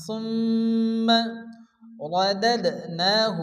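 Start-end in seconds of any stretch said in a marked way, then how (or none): 2.1-3.4 رددناه said slowly, the dal stopped short; slow syllable demo. Shown as a demonstration. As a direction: spell out رددناه slowly for the student. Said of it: "এখানে দালের উপরে জসম".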